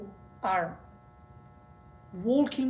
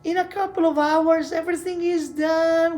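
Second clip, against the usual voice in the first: higher, louder, laughing reassurance to the wife; coaxing husband; 5 semitones higher, 3 dB louder than usual. Retold or imitated. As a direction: sweet-talk her out of it, half laughing. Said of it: "And I'm like".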